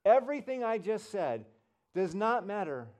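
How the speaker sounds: loud, high preacher's declaration; Rick Warren. Retold or imitated. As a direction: imitate a preacher driving the point home. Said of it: "he goes".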